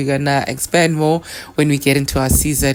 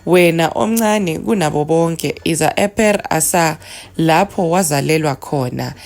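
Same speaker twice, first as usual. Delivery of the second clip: measured, raised chanting of a litany; prayer recitation; 2 semitones higher than usual. Acted. Spiritual teacher reciting the litany to listeners, in a solemn chant. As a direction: intone the prayer with reverence.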